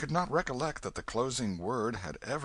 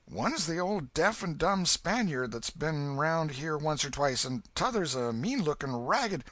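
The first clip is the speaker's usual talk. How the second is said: put-on boy voice; 7 semitones higher, 3 dB louder than usual. Huck describing.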